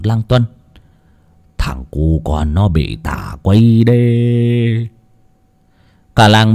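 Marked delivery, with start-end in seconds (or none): 1.6-4.9 put-on slow, grave old scholar voice; an old man pronouncing a grim verdict. Old scholar slowly tells the village elder, grave and slow.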